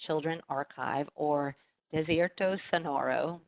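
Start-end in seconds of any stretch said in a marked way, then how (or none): 1.9-3.4 Spanish accent. Shown as a demonstration. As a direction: pronounce the Spanish title in a modest Spanish accent. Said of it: "That's my poor Spanish accent".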